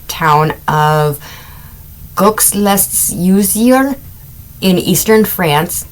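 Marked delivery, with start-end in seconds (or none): 2.1-3.9 careful, slow French accent on the place name. Shown as a demonstration. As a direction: say Gaux-les-Usiers slowly the way a French speaker would. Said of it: "I tried doing that with an accent".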